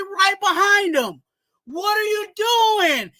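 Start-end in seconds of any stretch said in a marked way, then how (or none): 1.6-3.1 exasperated shout. Real, not acted. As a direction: demand an answer from the player. Ranting at the quarterback.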